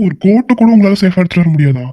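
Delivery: put-on exasperated boss shouting at the costume girl; angry outburst. Boss scolding staff over ruined coat.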